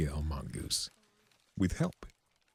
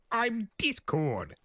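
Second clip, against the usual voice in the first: sigh; slower than usual. A narrator's reading. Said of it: "he sighed".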